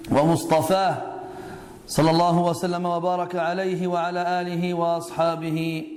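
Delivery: measured, lightly intoned praise formula; formal opening invocation. Real, not acted. Speaker opens his lesson praising God, formal lightly chanted recitation. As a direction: recite the opening doxology in an even, sustained tone.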